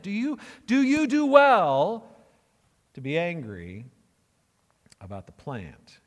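God presses the plant question hard, then lets it fall; slow loud question fading off. Acted. God's question, built loud then falling.

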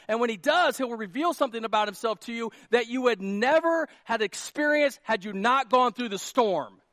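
loud, driving, repetitive build; preaching at full force. Real, not acted. Pastor testifying to congregation about deliverance, full-force preaching. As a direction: testify at full voice, punching each repeated phrase.

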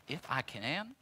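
soft, thoughtful echo of the words; quiet repeat. Acted. Jesus echoing the father's doubt, soft and thoughtful.

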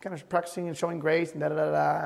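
soft, quick inner nudge; quietly prod, as a voice of conscience; hushed retold reproof; gentle conviction. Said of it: "the Lord convicted me".

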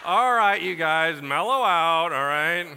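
loud, drawn-out "all right, you guys"; mock calm-down plea. Pastor mocks a driver telling others to relax, loud. Mocking mellow-out plea to crowd.

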